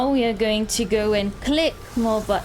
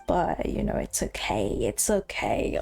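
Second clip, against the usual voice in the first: cracking voice; 11 semitones lower, 4 dB quieter than usual. Real, not acted. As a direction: voice breaking up, half unvoiced. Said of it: "my voice is fucked up".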